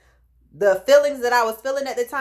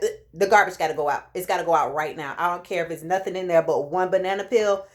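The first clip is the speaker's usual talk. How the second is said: nauseous insistence; 4 semitones lower, faster than usual. Retold or imitated. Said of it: "it made me nauseous".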